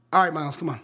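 lightly acted reluctant yes; Peter Parker. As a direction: give in after a sigh.

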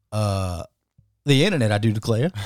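lightly voiced Southern "I do declare"; mock Southern accent. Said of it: "That's how they say it in the South".

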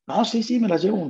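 keen, high-pitched yes; eager acceptance. Retold or imitated. Eagerly accepting the machines offer.

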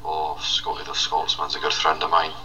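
lightly put-on Scottish brogue; mild Scottish accent; Scottish character voice. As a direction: play a friendly Scottish lad. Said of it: "cheap rip-off of Man Like Hacks".

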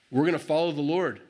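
first, measured declaration of resolve; determined. Retold or imitated. People first pledging to follow the Lord, determined. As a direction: state it firmly, before it builds. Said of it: "it's a building thing".

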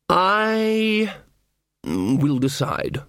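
long high drawn-out "I", then slow; imperious horned god. A narrator's reading. Horned king answers witch's orders, slow and imperious. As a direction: stretch it out with lordly weight.

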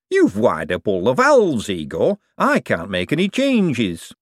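put-on slow, fretful young man; Hubert voice. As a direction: plead the problem slowly. Hubert frets to Igor.

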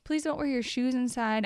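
polite request. Retold or imitated.

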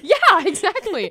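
laughing, high and loud; real laughter, slowed. Real, not acted. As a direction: laugh through the yes. Laughing agreement.

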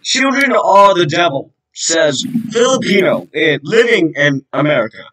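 slow, formal newsletter read; newsreader voice. Pretend. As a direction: read it like a news bulletin. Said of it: "you pretend I'm reading a newsletter".

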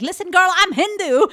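high, laughing quip; laughing retort. Retold or imitated. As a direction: crack up as you say it. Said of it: "I was like".

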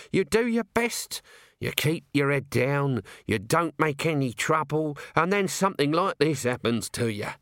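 hard-done-by working man complaining; aggrieved Nobby. Acted. Voices Nobby lamenting.

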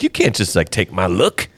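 lightly voiced high complaint; a hint of an aggrieved celebrity; mock singer. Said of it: "He's like".

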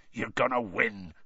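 gruff encouraging growl, barely shifted; growling Hagrid. Acted. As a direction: rumble it out like a big gamekeeper. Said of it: "Hagrid growled".

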